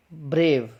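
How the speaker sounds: ब्रेव with a clearly sounded r; R pronounced. Shown as a demonstration. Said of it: "आर को र pronounce". (ब्रेव में र का साफ़ उच्चारण)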